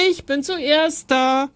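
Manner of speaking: high, slow, stretched-out boast; triumphant call. A narrator's reading. Boy racing his brother to pudding, triumphant call. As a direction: crow it out high, stretching the words.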